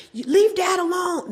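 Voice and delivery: high, mock-stern kid scolding; retold scolding. Kids scolding mom to leave dad alone, high mock-stern.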